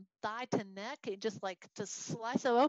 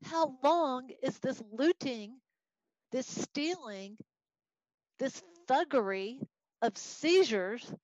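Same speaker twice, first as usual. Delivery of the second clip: bothered protest; 3 semitones higher than usual. Acted. Teacher as the prophet asking God about looting, bothered. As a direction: drag out each accusation, as if fed up. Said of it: "Habakkuk is bothered by it".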